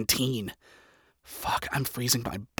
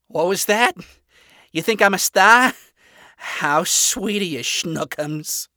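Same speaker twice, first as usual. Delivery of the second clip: higher, louder flamboyant teasing; Angel flirty; 6 semitones higher, 5 dB louder, slower than usual. Acted. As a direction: camp it up, flattered. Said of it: "posing with style as to sensationalize".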